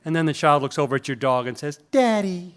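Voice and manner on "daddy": put-on high kid voice, laughing through it; the toddler again, amused; high childish Daddy with a laugh; child's voice. Child calls the dog daddy.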